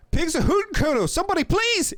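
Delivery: put-on high, loud kid yelling for help; squealing boy at full volume; full-blast shout. A narrator's reading. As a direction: send it far and wide across the yard. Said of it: "It's full blast now".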